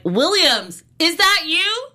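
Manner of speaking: high squeaky doubtful question; imitating commenters, voice shooting up; mocking the catfish, pitch leaping up high; mock suspicious question. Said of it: "And then they are like".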